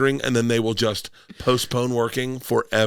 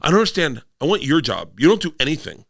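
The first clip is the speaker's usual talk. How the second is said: higher-pitched imitation of a complaining daughter; mock indignant complaint; 5 semitones higher than usual. Daughter challenging parent about the job, mock indignant. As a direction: protest in a raised, put-on kid's voice.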